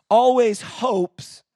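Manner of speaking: a preacher shouting scripture over the congregation; shouted preaching. Acted. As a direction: cry it out to the room.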